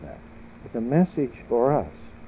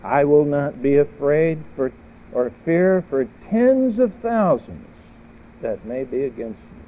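psalmist's defiant declaration; 2 semitones higher, 5 dB louder than usual. Acted. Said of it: "And he says".

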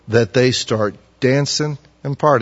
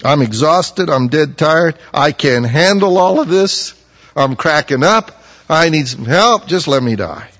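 exhausted complaint; 4 semitones higher, 4 dB louder than usual. Acted. Christian's exhausted complaint voiced.

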